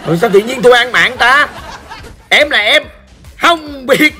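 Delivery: laughing while he asks, pitch high; laughing disbelief. Real, not acted. Streamer to viewers, laughing at an accidental kill. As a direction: laugh through it, baffled.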